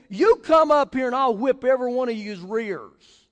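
loud mock threat; retold yelled threat. Man on balcony threatens street preachers, retold yelling. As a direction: holler a threat, imitating the heckler. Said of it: "he yells down at us".

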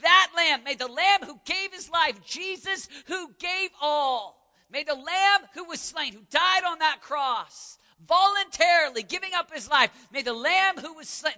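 loud, high preaching shout; roaring anthem. Retold or imitated. Preacher voicing young missionaries giving their lives, roaring. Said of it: "Listen to the roar".

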